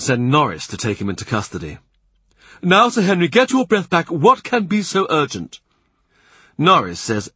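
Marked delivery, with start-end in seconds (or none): 2.6-5.6 high, raised voice greeting a messenger; lordly and soothing, pitched well up; grand churchman hailing a breathless rider; genial Cardinal. A narrator's reading.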